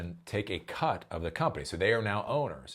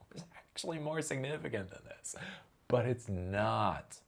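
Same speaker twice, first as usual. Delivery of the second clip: usual speaking voice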